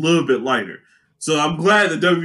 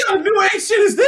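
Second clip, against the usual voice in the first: high-pitched comic shout; mock villain's alarmed outburst; 14 semitones higher, faster than usual. Comedian voicing Steppenwolf facing a new power, mock alarm. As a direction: cry out in exaggerated disbelief. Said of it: "Steppenwolf's like".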